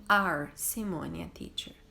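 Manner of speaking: trial question, stress on "Are"; trying option three. Shown as a demonstration. Teacher testing verb choices with the class. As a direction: try the last option. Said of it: "Ou eu falo".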